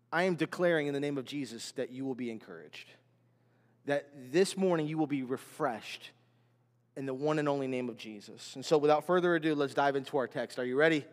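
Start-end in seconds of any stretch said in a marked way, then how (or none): 0.1-8.6 low, soft pastoral declaration; solemn declaration. Real, not acted. Preacher declaring encouragement over his congregation, low and solemn.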